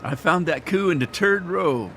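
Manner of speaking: put-on slipping into an Irish accent; playful try at an Irish accent. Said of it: "Wait a minute, that's Irish".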